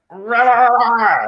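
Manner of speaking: high, loud preacher roar. Retold or imitated. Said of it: "Kenneth Copeland's like".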